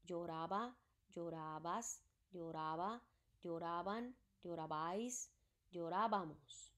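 lloraba, llorabas, lloraba, lloraban, llorabais, llorábamos, each ending said out clearly, one by one; teacher showing students how to say the endings, models each form carefully; pronunciation demo. Shown as a demonstration. Modeling each verb form for the class. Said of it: "And how is it pronounced?".

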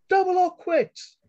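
high, loud ringing call over the crowd. A narrator's reading. Callie calling out over the crowd, high and ringing. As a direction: cut through the noise with it. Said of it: "Callie's high, clear voice rang out".

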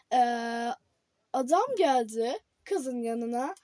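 reading headlines like an anchor; newscaster voice. Pretend. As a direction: pretend TV news read. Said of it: "tam bir spiker gibi konuştum". (haber spikeri gibi)

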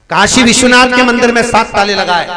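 declaiming loudly. Real, not acted. Preacher booming the story's key fact to the congregation. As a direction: proclaim it to the whole hall.

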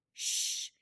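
soft, voiceless "shh"; warning shush. A narrator's reading. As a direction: hush them quietly as a warning. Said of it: "he warned me".

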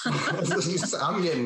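high, laughing, half-choked up; a real laugh breaking through emotion; laughing through tears. Real, not acted. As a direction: laugh it out while welling up. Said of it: "I'm tearing up".

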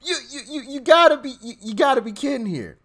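squeaky high laughing disbelief. Real, not acted. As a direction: laugh through the words in disbelief.

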